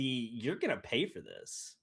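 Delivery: soft, slow menacing threat; low and quiet, a veiled warning; slow quiet menace. Retold or imitated. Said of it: "That sarcasm, the snark".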